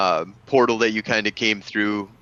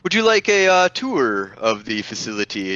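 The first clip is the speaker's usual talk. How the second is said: dapper gentleman. Acted. NPC offers tour.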